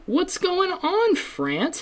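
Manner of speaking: high, bright-eyed greeting to listeners; upbeat shout-out. Real, not acted. Podcaster greets French listeners with a high cheery call.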